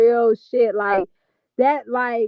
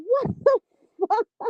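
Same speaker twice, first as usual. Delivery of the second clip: cracking up; 12 semitones higher than usual. Real, not acted. Breaking up after the impression.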